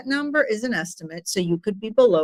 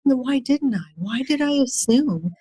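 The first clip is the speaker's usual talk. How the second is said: retold shocked self; 3 semitones higher than usual. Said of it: "really shocked me".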